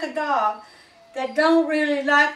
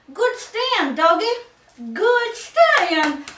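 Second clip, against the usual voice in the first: praising the dog; 5 semitones higher, slower than usual. Real, not acted. Praising the dog after stacking.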